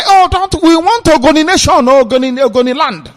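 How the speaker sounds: high, loud mock chant of separatist slogans; mocking activists. Commentator mocking Ogoni separatists, high and loud parody voice. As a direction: parody the activists crying for their own nation. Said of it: "The more they say".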